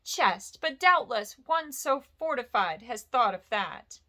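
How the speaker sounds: frightened squeak. Acted. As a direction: squeak out the words in fear. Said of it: "in a frightened squeak".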